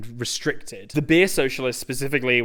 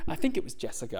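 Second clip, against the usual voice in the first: quiet unsure aside; muttered aside; 7 dB quieter, much faster than usual. Real, not acted. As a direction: mumble it under your breath. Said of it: "I'm gonna check that in post".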